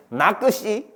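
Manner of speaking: 나끝이 pulled apart syllable by syllable; wrong spelled-out reading. Shown as a demonstration. Teacher checks a wrong reading with students, 나끝이 spelled out. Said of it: "이렇게 읽어?".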